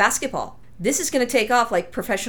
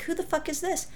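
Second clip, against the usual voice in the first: annoyed retort; 9 semitones higher, 8 dB quieter than usual. Retold or imitated. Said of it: "and I'm like".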